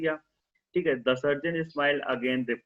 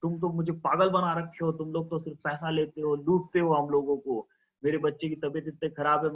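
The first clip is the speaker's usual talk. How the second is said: father shouting; 3 semitones higher than usual. Acted. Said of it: "उसके पिता चिल्लाए जा रहे हैं".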